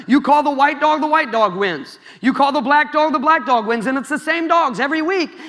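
a preacher's hammed-up Indian accent; light comic Indian accent; mock Indian accent. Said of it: "I don't know if that's an Indian accent".

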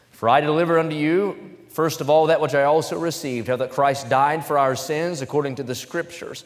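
fervent Bible reading from the pulpit; preaching scripture. Acted. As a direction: proclaim the verses to the congregation. Reads scripture at full force.

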